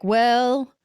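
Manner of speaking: high, loud hayseed drawl; playful mock yokel voice; country bumpkin. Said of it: "a country bumpkin, you know, like".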